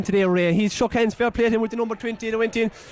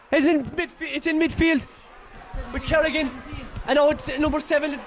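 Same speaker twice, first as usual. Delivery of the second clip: frantic commentary; 3 semitones higher than usual. Real, not acted. Frantic commentary in the final minutes.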